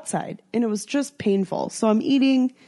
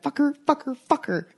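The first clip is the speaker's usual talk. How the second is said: mock outburst; 6 semitones higher than usual. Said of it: "The Tourette's that has kicked in".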